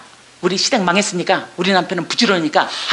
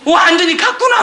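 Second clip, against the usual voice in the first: high, loud laughing exclamation; laughing disbelief; 7 semitones higher, 4 dB louder than usual. Retold or imitated. Husband seeing his weeping wife, laughing loud disbelief. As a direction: laugh it out as if she has lost her mind. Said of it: "막 울면서 이러니까".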